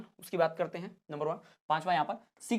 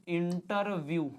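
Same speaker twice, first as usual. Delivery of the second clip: इंटरव्यू stretched out syllable by syllable; very slow, drawn-out इंटरव्यू; slow dictation; much slower than usual. Shown as a demonstration. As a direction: sound out इंटरव्यू slowly as you write. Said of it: "Hindi में लिखना तो ऐसा भी लिख सकते हो".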